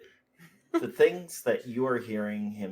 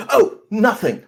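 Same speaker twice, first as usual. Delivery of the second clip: laughing taunt; 10 semitones higher, 14 dB louder than usual. Acted. Mock taunt ending in laugh.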